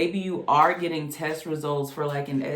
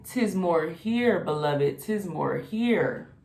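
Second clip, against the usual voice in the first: voice of Spirit; slower than usual. Acted. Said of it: "Spirit is saying".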